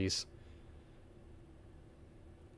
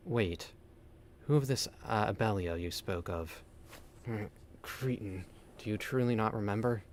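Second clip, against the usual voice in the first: weary dying guardian; 2 semitones lower, 6 dB quieter than usual. Acted. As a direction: read it like a noble creature fading out. Reads dying guardian's dialogue aloud.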